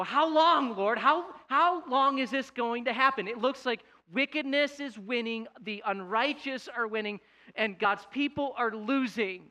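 acted plea to God, pitched high; pleading complaint. Congregation crying out to God over wickedness, pleading complaint. Voicing believers' anguished cry to God.

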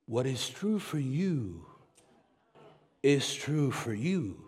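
lazy low relativist impression, lightly mocking; different voice. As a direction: drop down into a dreamy mock voice. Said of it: "get my different voice here".

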